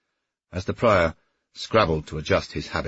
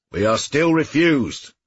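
calling out; 9 semitones higher, 5 dB louder, slower than usual. A narrator's reading. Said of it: "called John Jacob".

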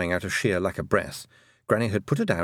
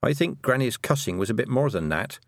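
very definite; 2 semitones higher than usual. Acted. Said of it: "in a very definite voice".

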